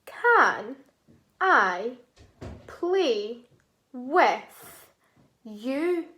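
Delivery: each word said apart, with a pause after each; counting words. Shown as a demonstration. Teacher counting the words of the sentence one by one. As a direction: tap out every word separately. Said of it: "Let's count and see how many words".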